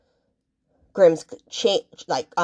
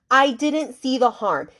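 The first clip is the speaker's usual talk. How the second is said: slow, higher mock of the sister's excuse; slowed mocking echo; slow mocking repeat; 4 semitones higher, slower than usual. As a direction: drag it out, mimicking the sister's excuse. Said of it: "she literally tells her".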